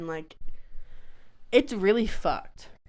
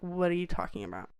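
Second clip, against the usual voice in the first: half-asleep, soft, rushed "What are you talking about?"; groggy half-asleep; 7 dB quieter, faster than usual. Retold or imitated. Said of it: "I was not ready for interaction".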